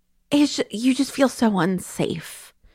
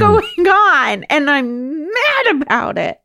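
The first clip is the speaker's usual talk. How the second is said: voicing herself; 9 semitones higher than usual. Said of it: "I was like".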